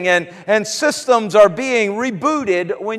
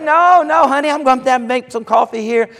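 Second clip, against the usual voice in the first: cheerful mom; 4 semitones higher than usual. Retold or imitated.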